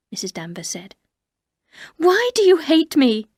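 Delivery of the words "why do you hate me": raised, slow, pleading question; hurt plea. Acted. Narrator to Mrs Danvers, a hurt raised plea. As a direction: ask why she is hated, hurt and rising.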